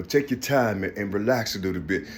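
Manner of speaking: low, soft imitation of an advisor; retold soothing advice. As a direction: imitate someone quietly telling him to relax. Voicing people advising him to relax.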